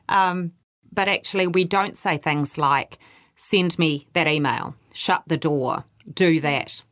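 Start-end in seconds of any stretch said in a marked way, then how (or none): 3.4-6.8 "Send me that email, shut the door" said as bare flat commands; blunt direct orders. Shown as a demonstration. Coach showing migrants how direct orders sound rude. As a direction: bark the orders plainly, no softeners. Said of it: "'cause it sounds really rude".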